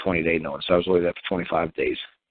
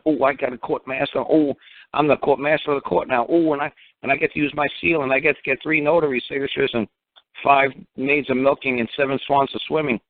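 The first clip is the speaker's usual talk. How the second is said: higher sing-along list, mock excitement; mocking boast; 5 semitones higher than usual. Speaker parodying the court master's boasting, mocking. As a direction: parody a self-important boaster piling up trinkets.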